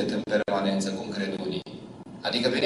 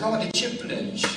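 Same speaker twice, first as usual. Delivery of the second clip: put-on child voice; 10 semitones higher, 3 dB quieter than usual. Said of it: "Și a zis".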